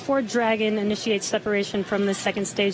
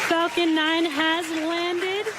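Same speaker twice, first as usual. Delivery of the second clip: excited; 7 semitones higher than usual. Real, not acted. Booster just landed, host celebrates.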